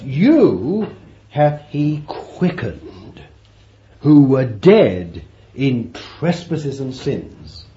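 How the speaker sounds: slow, weighty reading; preacher reading the verse slowly; scripture reading. Acted. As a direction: read it out as holy writ.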